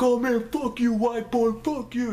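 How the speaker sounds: high-pitched mock jeering; lightly hammed-up angry retort; imitated cursing back. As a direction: act out attackers hurling curses. Acted attackers cursing back.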